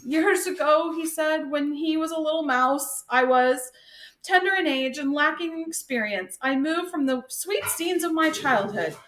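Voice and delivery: a mouse hamming up his sad past; lightly choked with mock emotion. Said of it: "his voice was all choked up with emotion".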